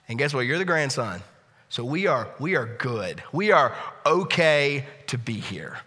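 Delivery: reassuring. Retold or imitated. Father reassuring son.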